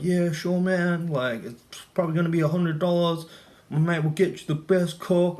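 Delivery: put-on high, eager Hispanic accent. The friend offers to get coke, in a put-on Hispanic accent. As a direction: pitch way up into the dealer's Hispanic accent. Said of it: "Hispanic accent".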